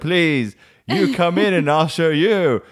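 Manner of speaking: high, drawn-out retold plea; mock desperate pleading. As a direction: beg mum with hammed-up desperation. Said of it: "And I'd be like".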